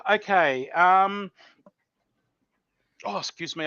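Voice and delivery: talking through heartburn; uncomfortable, slow and held in. Real, not acted. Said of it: "I've got heartburn from tasting that".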